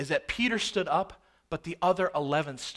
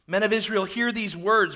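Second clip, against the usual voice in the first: loud, forceful address; preached scripture reading; 3 semitones higher, 4 dB louder than usual. Acted. Peter addresses the men of Israel, forceful proclamation. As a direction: proclaim it to a whole crowd.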